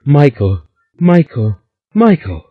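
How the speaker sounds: climbing terrified shriek; terrible scream. A narrator's reading. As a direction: scream his name in rising terror. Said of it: "a loud and terrible scream".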